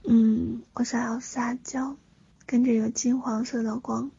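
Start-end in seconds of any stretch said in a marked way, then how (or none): 0.7-2.0 cutesy whiny pleading. Pretend.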